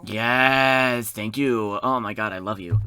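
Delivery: loud, drawn-out yes and gushing thanks; overjoyed thanks. Pretend. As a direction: gush loudly with exaggerated gratitude. Reacts to being brought water.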